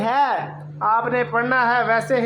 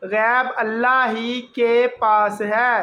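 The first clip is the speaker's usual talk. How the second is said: slow reading. Shown as a demonstration. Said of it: "ہے زبر بڑی یہ ہے".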